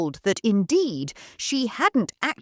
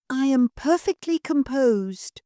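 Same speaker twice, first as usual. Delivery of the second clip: high-pitched; 7 semitones higher, 3 dB louder than usual. Acted. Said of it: "her voice several octaves higher than usual".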